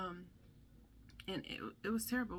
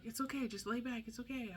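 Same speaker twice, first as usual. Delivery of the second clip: higher, hushed reassurance to lie back; soothing mom; 6 semitones higher than usual. Retold or imitated. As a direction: gently coax a frightened child down. Calming son who sat up.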